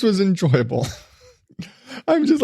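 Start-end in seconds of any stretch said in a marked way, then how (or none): 1.5-2.4 1 laughing. Real, not acted. Laughs at the memory.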